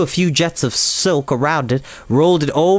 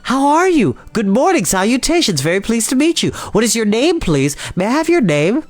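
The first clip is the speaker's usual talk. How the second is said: a well-mannered spider, lightly voiced; Charlotte's voice; 8 semitones higher than usual. A narrator's reading. Charlotte politely asks Wilbur his name, higher friendly voice.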